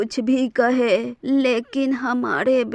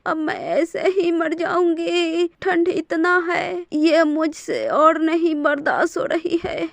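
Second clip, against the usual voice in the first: mild tearful pleading; 3 semitones higher than usual. Acted. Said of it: "रोने लगती है".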